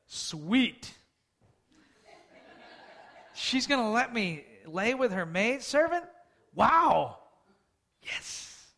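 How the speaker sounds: mock gleeful husband, far-off voice; eager Abraham. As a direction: ham up a greedy delighted Abraham. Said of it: "he's like".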